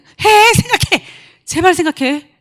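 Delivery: high, loud, pleading shout; urgent, pleading yell; insistent shout. Acted. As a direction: hammer the word home. Pleading, urging to keep thinking.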